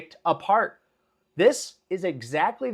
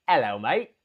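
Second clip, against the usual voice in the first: lower, mock British greeting; British accent; 5 semitones lower than usual. Host voicing his uncle's greeting, British accent. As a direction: put on a quick British accent. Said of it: "but not in a British accent".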